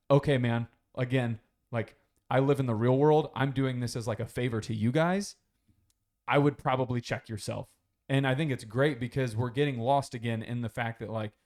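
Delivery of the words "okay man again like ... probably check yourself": louder, measured put-down; stern warning. Retold or imitated. Andrew telling the guy to check himself, louder. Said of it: "And he's like".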